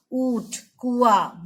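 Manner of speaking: ऊंट and कुआं said slowly with the nasal vowels drawn out; slow nasal demo. Shown as a demonstration. Teacher shows pupils the nasal vowel, slowly. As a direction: spell out ऊंट, कुआं for the class. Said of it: "चंद्र बिंदु का प्रयोग".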